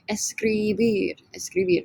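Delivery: teacher models escribir; model for repeating. Shown as a demonstration. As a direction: sound out escribir clearly. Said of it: "Repítame".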